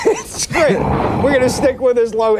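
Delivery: high, giggly sarcastic; trying not to crack up; anchor stifling giggles. Real, not acted. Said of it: "now we know why".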